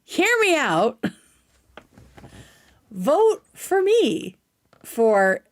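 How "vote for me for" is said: mock begging. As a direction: beg sweetly for votes like a small child.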